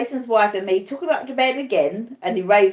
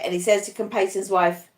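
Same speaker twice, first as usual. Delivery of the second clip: plain reading voice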